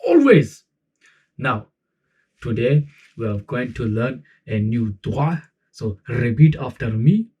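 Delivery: slow, drawn-out praise from a hammed-up Quran teacher; Quran teacher impression. Quran teacher leading the class in a dua, slow and hammed-up. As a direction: play the old-school mosque teacher coaxing his class. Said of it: "Let me show you".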